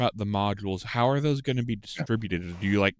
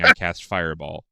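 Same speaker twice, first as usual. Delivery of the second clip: yelling a spell; 5 semitones lower, 5 dB louder than usual. Retold or imitated. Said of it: "immediately yelling".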